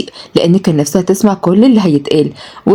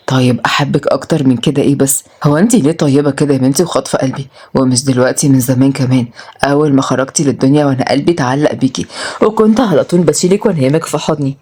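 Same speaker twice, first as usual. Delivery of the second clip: lightly voiced, low-pitched male character; low, affectionate confession; devoted suitor; 4 semitones lower than usual. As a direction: declare your love in a lowered voice. Voices Murad declaring love.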